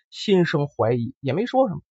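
plain reading voice

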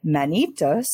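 slow, grand The Manitos; fancy pronunciation. Real, not acted. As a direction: say The Manitos. with a flourish. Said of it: "not said as fancy as I tried".

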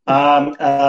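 glitchy robotized call audio; robotic voice. Real, not acted. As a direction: voice breaking up like a robot. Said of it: "A sua voz tá robotizada".

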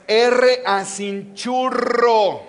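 churro said slowly with a strong trilled rr; rolled Spanish R. Shown as a demonstration. Pastor showing the church how to say churro, rolled rr. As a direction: drag out churro, rolling the rr. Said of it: "that's how you say it".

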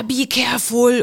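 lightly imitated stern lecture; lecturing schoolmaster. Armed man warns the passenger like a schoolchild, mildly hammed-up lecturing. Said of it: "als wäre ich ein unmündiges Schulkind".

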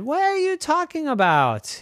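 bewildered question; puzzled little girl. Acted. Girl confused by teasing.

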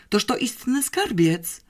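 high, slow marvelling; delighted. A narrator's reading. Captain admires the attic hoard, slow delight. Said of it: "szczerze zachwycony".

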